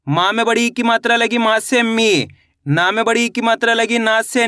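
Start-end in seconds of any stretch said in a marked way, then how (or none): 1.8-2.3 मी with a long ee; drawn-out vowel. Shown as a demonstration. Teacher demonstrating the big matra, मी stretched out. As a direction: hold the ee in मी. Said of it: "खींच के पढ़ा जाता है".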